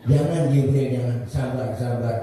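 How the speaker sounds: casual refusal. Acted. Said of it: "Ini kalau bahasa kita".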